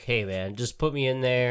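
casual low-key request. Retold or imitated. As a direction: toss it off like a quiet favour. Imagined actor asking director casually.

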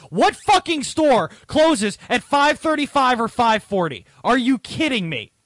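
high, loud disbelieving rant, slowed; exasperated outburst. Real, not acted. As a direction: hit every word like you can't believe it. Exasperated rant about the customer.

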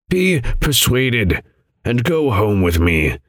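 slow and gentle pleading; gently. Acted. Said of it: "he continued gently".

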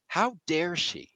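slow, mildly indignant outburst; upset. Acted. Grandson reading his bank receipt, upset. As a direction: stretch it out in mock outrage. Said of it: "He gets really upset".

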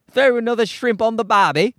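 mock Australian accent passed off as British; hammed-up, wrong-country British accent; botched British accent. Comedian joking about British speech, mock Australian accent.

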